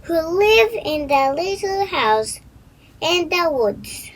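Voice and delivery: put-on a child telling a stranger where she's going; little girl voice. A narrator's reading. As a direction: read it as an eager little girl. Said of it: "she said".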